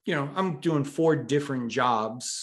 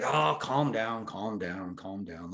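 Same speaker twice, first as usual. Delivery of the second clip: retold placating; 2 semitones lower, slower than usual. Boss to employee who just quit, placating. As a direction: imitate a boss talking someone down.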